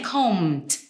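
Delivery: "combed" ending in a crisp unvoiced T; wrong T ending. Shown as a demonstration. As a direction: say "combed" as "combt". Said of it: "Not the T".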